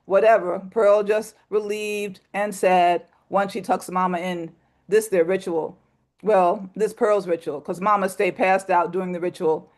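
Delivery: measured, sober storytelling read; poem reading. Acted. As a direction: read it steady and a bit somber. Reads poem When Mama Pass Out.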